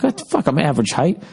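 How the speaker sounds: high mock-offended squawk; a touch of faked outrage; mock indignant. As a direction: play it offended. Retold indignant reply.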